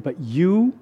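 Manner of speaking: low, very slow, hushed promise; God. Retold or imitated. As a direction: fade almost to a whisper. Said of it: "And then he said".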